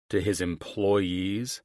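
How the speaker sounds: slow, drawn-out questioning; incredulous echo. Acted. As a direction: repeat it slowly in disbelief. Dad echoes her in disbelief.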